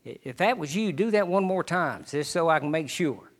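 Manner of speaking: hushed, faltering, stammering plea; a trembling, quiet voice that barely gets the words out; shaky voice. Retold or imitated. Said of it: "in a shaky voice".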